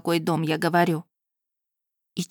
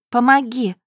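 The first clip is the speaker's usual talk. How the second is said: higher, louder cry; call for help; 5 semitones higher, 6 dB louder than usual. Acted. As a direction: shout for help. Heroine calls for help.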